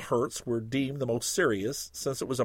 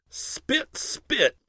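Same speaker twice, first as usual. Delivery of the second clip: spit sounds; 10 semitones higher than usual. A narrator's reading. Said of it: "Two little sounds like".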